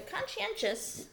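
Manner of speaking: Conscientious said high and slowly, stressed. Shown as a demonstration. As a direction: lift the voice on conscientious, drawn out. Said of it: "we've got this word conscientious".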